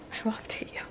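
"I will update you" breathed in a bare whisper. Shown as a demonstration. Vlogger signing off to viewers, whispering "I will update you".

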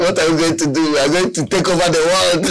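squeaky cartoon mouse plotting, fast at the end; hammed-up lab rat scheming to rule the world; Pinky and the Brain. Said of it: "it sounded a bit like Pinky and the Brain".

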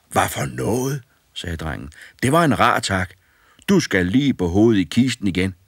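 mock outrage at ingratitude; indignant boy. A narrator's reading.

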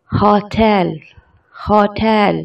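"होटल" said as hotel, stress on the second syllable; careful teacher model of "होटल"; correct pronunciation. Shown as a demonstration. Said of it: "लेकिन इसकी pronunciation है".

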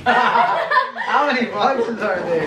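slow laughing disbelief. Real, not acted. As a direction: laugh it out slowly. Laughing at endless boxes.

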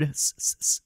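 short hissing S bursts; repeated S sounds. Shown as a demonstration. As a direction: hiss out repeated S. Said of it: "that tends to be pretty harsh".

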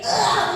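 demonstration yell pulled up from within; soulful yell demo. Shown as a demonstration. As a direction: show a shout with soul in it. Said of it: "소울을 이렇게".

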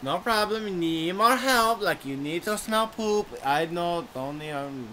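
very low talking-dog voice; helpful Chihuahua. Acted. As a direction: offer help as a deep-voiced cartoon dog.

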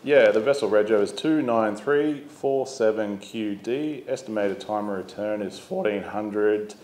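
skipper hailing the Coast Guard on VHF, by the book; radio call demo. Shown as a demonstration. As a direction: call it in like a skipper on channel seven two. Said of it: "we're gonna demonstrate a radio call".

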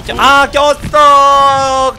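slow, drawn-out loud yell; frustrated shout. Real, not acted. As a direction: yell it out, stretched long. Stuck on map, yelling.

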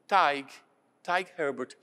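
"Taig" in one syllable, rhyming with "tie" plus a final g; native name pronunciation. Retold or imitated. Priest retelling his answer to villagers, "Taig Herbert" pronounced natively. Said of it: "Aí o meu nome é Taig".

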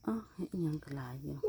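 whispered aside, voice gone. Real, not acted. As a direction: breathe it out under the filming. Aside to someone nearby. (กระซิบเบาๆ)

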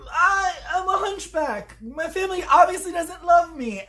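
high-pitched mock whining; mock self-pity. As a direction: wail it like a sorry misfit, hammed-up. Mocking a character's self-pitying wail.

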